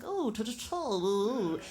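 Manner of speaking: high, fluting mock upper-crust accent; caricatured upper-crust accent. Mimicking the employer for an audience, mock upper-crust accent. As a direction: parody a snooty society lady's accent. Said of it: "her accent was just, and it really was like that".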